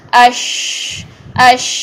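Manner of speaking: "اش" with a long airy sh; light-touch sheen. Shown as a demonstration. Tajweed teacher repeating the model, light-touch sheen. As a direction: let the breath run on in "اش". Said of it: "ہلکی سی touching point".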